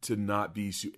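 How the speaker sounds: slow, measured speech; deliberate. Shown as a demonstration. Showing how to avoid stuttering, slow and deliberate. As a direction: place each word with care. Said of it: "being deliberate right now".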